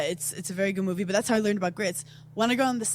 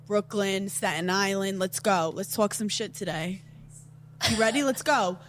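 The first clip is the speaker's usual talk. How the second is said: hyped podcast intro; 2 semitones lower, slower than usual. Shown as a demonstration. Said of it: "podcast intro in her New York voice".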